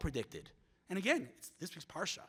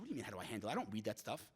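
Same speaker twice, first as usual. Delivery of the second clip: lower, softer offhand retort; Ben Shapiro; 10 semitones lower, 7 dB quieter, much faster than usual. Retold or imitated. Commentator answering how he handles online hate, low dismissive retort. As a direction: lightly imitate an unbothered reply, low and quiet. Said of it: "I asked him, I said".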